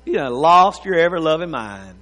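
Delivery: low, hushed private scoff; laughing inwardly. Acted. Listener privately scoffing at someone crazy, laughing in yourself. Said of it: "you're laughing in yourself going".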